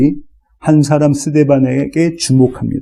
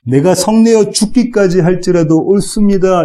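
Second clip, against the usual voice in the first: pitched higher, 성내어 leaned on defiantly; stubborn Jonah; 4 semitones higher than usual. Acted. Preacher voicing Jonah defying God, stubborn and higher. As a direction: Jonah talking back to God, mildly acted. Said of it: "이렇게 지금 요나가 대답합니다".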